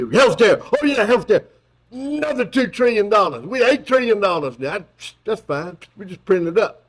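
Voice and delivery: mocking Biden shrugging off debt; mocking Joe Biden. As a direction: toss off trillions like nothing. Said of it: "my mocking of Joe Biden".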